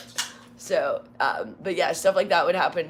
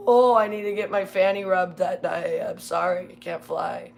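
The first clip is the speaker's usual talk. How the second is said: mock whiny flyer; 5 dB louder than usual. Imitating whiny flyers excuses.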